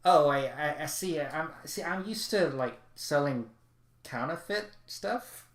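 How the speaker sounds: lightly voiced embarrassed huckster; Cutemon's accent. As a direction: caught out, fumbling the excuse. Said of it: "I can't do his accent anymore".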